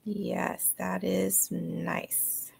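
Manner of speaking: breathy whispered aside, no voice. Real, not acted. Friend on video call whispering her approval. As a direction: hush it right down.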